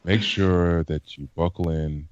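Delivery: slow, calm in-flight announcement voice; lightly put-on stewardess voice; flight attendant. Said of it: "this is my stewardess voice".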